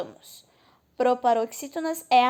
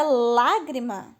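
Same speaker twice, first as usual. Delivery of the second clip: lágrima with a punched, louder "lá"; stress on first syllable; 4 dB louder, much slower than usual. Shown as a demonstration. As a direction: hit the "lá" in lágrima. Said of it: "não é a última".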